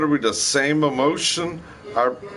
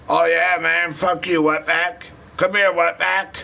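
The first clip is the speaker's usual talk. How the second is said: mock racist caller; 6 semitones higher than usual. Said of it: "You don't see every goddamn Spanish person".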